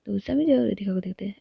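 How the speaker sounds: ordinary delivery, nothing marked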